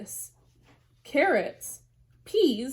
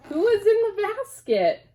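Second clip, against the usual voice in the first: much higher, louder mock gasp question; surprised reveal; 11 semitones higher, 5 dB louder than usual. A narrator's reading. Storyteller revealing the bunnies to kids, surprised. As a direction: pop the question with big surprise.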